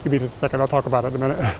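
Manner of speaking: winded, quiet and breathy; out of breath. Real, not acted. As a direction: still catching breath after the climb. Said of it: "sorry, I'm catching my breath".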